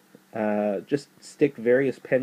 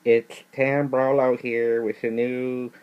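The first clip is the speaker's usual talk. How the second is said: nerd voice; slower than usual. Pretend. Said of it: "that's my nerd voice".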